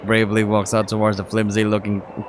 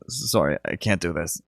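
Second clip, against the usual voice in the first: shaken and quiet; 4 semitones lower, 6 dB quieter than usual. Acted. Narrator shaken, giving up.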